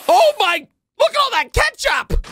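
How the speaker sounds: high, excited shout of disbelief; shocked outcry. Real, not acted. Viewer seeing all that ketchup, shocked high shout. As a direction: exclaim in shock, pitch way up.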